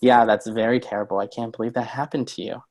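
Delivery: hollow, judging "that's very terrible"; sympathy that agrees with the drama; words of pity that feed the drama; dismissive sympathy. Shown as a demonstration. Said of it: "listen to the two things I say".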